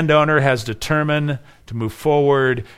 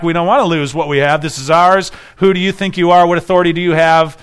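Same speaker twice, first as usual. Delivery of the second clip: fast, louder, affronted protest from the priests; indignant temple leaders; 2 semitones higher, 5 dB louder than usual. Retold or imitated. Temple leaders confronting Jesus, indignant and fast. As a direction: bristle like threatened priests defending their turf. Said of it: "they'd be like".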